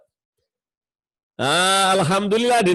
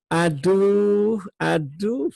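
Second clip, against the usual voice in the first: gentle aduh; much slower than usual. Shown as a demonstration. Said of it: "kalau suaranya dilemah lembut". (aduh yang lemah lembut)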